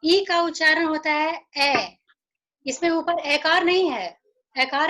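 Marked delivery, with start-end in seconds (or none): 1.6-2.0 "ए" as a simple e, not opened to ऐ; phonics sound. Shown as a demonstration. Teacher showing the sound of letter E, simple phonics vowel. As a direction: keep "ए" a pure short e. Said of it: "ये सिर्फ ए है".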